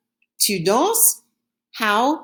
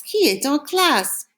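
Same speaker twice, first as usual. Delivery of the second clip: slow, careful French sentence; slow model sentence; 5 semitones higher, slower than usual. Shown as a demonstration. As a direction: model it slowly for the class. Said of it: "Who is in class?".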